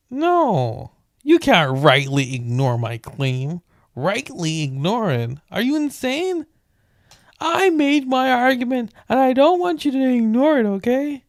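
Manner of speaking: high, loud indignant rant; mock outrage. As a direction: play the offended author, shouting.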